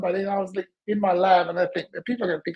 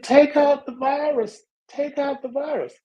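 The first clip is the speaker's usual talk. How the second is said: inner voice; 6 semitones higher than usual. Retold or imitated. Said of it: "And then the voice said".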